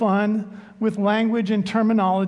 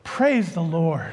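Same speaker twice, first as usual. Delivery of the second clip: relieved praise; 5 semitones lower, slower than usual. Retold or imitated. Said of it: "the pastor is amazed".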